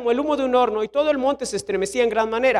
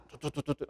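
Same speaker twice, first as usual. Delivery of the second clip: soft stuttered rumble noise; low, quiet "tu-tu-tu" trembling sound; imitated tremor; 7 semitones lower, 14 dB quieter, faster than usual. Preacher shows the mountain starting to tremble, imitated tremor.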